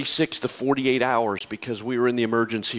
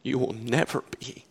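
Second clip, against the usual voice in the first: hushed reassuring divine voice; gentle voice of God; 3 dB quieter than usual. Retold or imitated. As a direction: speak it like a quiet comfort. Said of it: "and he said this".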